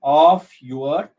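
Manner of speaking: measured, separated OF and YOUR; syllable count. Shown as a demonstration. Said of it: "of one syllable".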